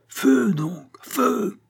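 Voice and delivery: very high, drawn command; cried order. A narrator's reading. Billaud urging the guards to fire, high-pitched cry. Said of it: "s'écria Billaud".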